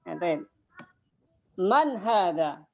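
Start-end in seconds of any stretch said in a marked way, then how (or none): 1.6-2.6 Man hadha? read slowly and clearly; slow model reading. Shown as a demonstration. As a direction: read it out slowly for the class to copy. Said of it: "ana akra awalan, summa ittabi'u jami'an". (membaca pelan sebagai contoh)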